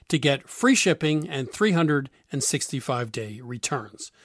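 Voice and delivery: bright, upbeat sponsor read. Acted. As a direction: sell it like a radio host ad. Host reads a clothing ad.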